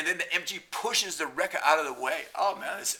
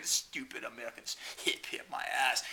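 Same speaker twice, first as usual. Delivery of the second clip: whispering; 3 semitones lower, 6 dB quieter than usual. Real, not acted. Muttered aside.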